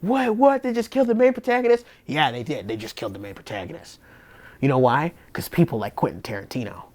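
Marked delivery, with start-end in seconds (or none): 0.0-1.9 high, fast incredulous what; shocked disbelief. Retold or imitated. Viewer reacting to the main protagonist being killed, shocked. 2.1-4.0 low, quiet They just killed the main protagonist with no surprise; deadpan. Real, not acted. Answering her own shocked question, quiet deadpan.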